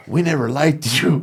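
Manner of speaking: mock-official put-down, slowly delivered; school principal. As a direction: draw it out like a principal's blunt verdict. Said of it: "the dean and the principal was like".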